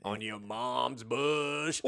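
teasing punchline broken up by laughter; laughing through the joke. Real, not acted. Cohost teases partner, slowly laughing it out.

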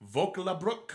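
Vöcklabruck tried as VOH-kla-brook with a rising question; unsure pronunciation. Real, not acted. Asking his co-host how to pronounce the Austrian town, tentative. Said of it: "how do you pronounce that".

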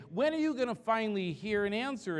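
high, pleading question to God; desperate question. Retold or imitated. David pleading with God for an answer, high and desperate. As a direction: ask it like a worn-out believer. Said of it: "he goes on to say this".

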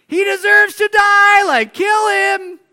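high furious mob yell; mob shout. Retold or imitated. Preacher voicing the crowd demanding Paul die, yelling. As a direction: scream for his death like the crowd. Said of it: "and they're like".

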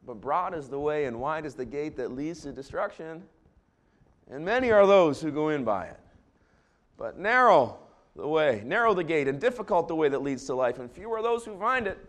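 solemn, measured recitation; scripture reading. Acted. Pastor reciting Jesus' words to the church, solemn. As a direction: intone the verse.

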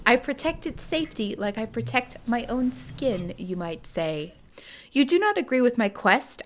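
measured, formal story reading; lightly performed literary narration; reading a letter aloud. Acted. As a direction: read out an old correspondent's letter with dry formality. Reads a letter from the book aloud.

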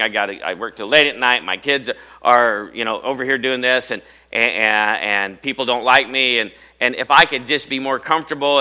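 lightly voiced grumbler, running on and on; envious complainer. Worker envying people down the street, mildly complaining. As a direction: pile up complaints with a touch of self-pity. Voicing a discontented working person.

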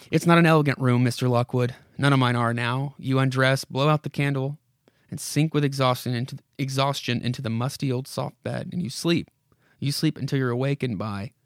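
put-on a creaky old house coaxing the visitor; spooky house voice. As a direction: lure him in like a haunted house. House voice goes on.

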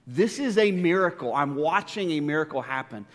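the third repeat comes out fuller, amazed; rising wonder. Retold or imitated. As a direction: let the awe break out. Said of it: "I'm just thinking in my mind".

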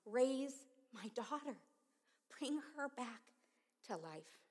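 loud slow plea; pleading. Retold or imitated. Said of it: "And I asked him".

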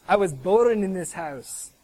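loud, slow imitated Scottish accent; hammed-up Scottish declaration. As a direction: play a burly Scotsman, loud and deliberate. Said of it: "he goes in his Scottish accent".

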